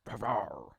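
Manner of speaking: growled "rah"; password roar. Acted. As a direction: imitate a roared password. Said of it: "He says some kind of password".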